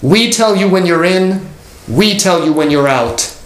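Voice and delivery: slow, firm mock call into the house; retold yell. Pastor yelling at the wayward member, a mild mock shout. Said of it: "he yelled into the house".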